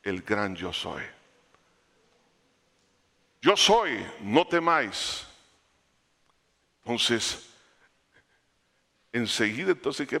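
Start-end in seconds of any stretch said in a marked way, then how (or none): 3.4-5.3 commanding Jesus. Retold or imitated. Preacher voices Jesus again.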